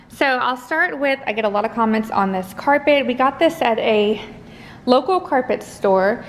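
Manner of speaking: out of breath from the stairs; talking while catching your breath. Real, not acted. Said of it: "Y'all, I'm out of breath from".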